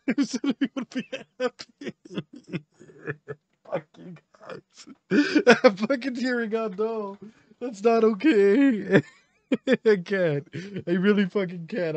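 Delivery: real teary laughter; tearing up while laughing. Real, not acted.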